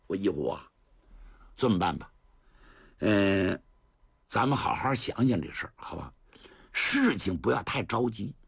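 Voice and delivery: put-on an old general brushing off the youngster; lightly voiced old general. Cheng Yaojin advises Dou Yihu. (程咬金摆架子，声音稍低)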